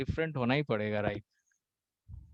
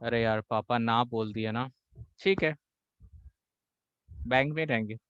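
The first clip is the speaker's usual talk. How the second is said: soft, low, giving-in sigh of a voice; low resigned son giving in to father; submissive resignation; 6 semitones lower, 4 dB quieter than usual. Retold or imitated. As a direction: meekly give up. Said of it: "जो submissive होते हैं".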